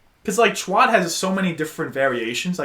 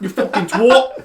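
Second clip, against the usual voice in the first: put-on British accent; 5 semitones higher, slower than usual. Friend cursing for laughs, British accent. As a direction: draw out the insult in a British accent. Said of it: "if they're said in a British accent".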